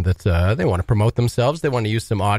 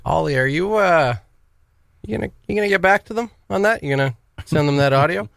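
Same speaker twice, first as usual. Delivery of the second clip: nagging coworker; 8 semitones higher than usual. Retold or imitated. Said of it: "I was like".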